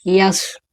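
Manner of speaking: "यस" as yas, with a y in front; wrong letter S. Shown as a demonstration. Teacher echoing the pupils' mistaken S, wrong reading. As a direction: start "यस" on a y glide. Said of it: "हो गया गलत".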